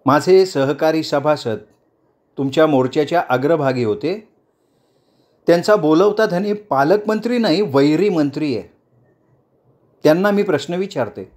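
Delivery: lightly voiced leader daring the crowd; challenging politician. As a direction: she puts pointed questions to the protesters. Speech continues.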